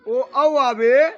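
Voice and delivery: slow dictation. Shown as a demonstration. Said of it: "slow dictation of the rule".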